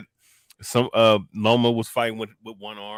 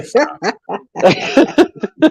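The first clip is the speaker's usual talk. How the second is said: sharp high shout; 14 semitones higher, 8 dB louder than usual. Real, not acted. Arguing over a boxer, he shouts high and loud. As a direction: Stop it yelled high and loud. Heated boxing argument.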